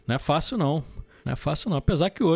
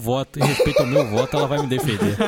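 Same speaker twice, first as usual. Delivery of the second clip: laughing; 3 semitones lower than usual. Real, not acted. Laughs through repeated vote claim.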